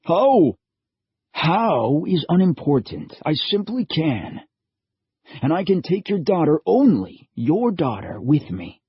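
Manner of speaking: lightly voiced calm old man; a hint of a mysterious old man, steady and sure; lightly voiced old stranger calmly claiming the girl. A narrator's reading. Old man speaks to the father.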